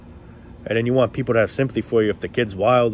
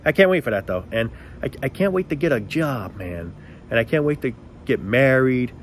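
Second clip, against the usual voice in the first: sarcastic enthusiasm. Shown as a demonstration. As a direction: gush with fake joy about debt and bills. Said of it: "what I'm about to demonstrate, tell me how stupid I truly sound".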